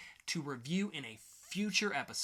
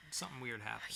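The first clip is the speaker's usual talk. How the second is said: hushed whisper; 4 semitones lower, 7 dB quieter than usual. Acted. Podcast host whispering a spoiler tease, hushed whisper. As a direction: whisper it like a secret. Teasing a plot twist.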